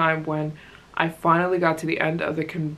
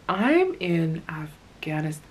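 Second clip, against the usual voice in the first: slow, breath-only retold realization; hushed, reenacted disbelief; awed whisper; slower than usual. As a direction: whisper it slowly as it sinks in. Reliving her awe on arrival.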